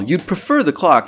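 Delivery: high, eager innkeeper's wife; landlady voice. A narrator's reading. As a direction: pitch her up as the fussing landlady.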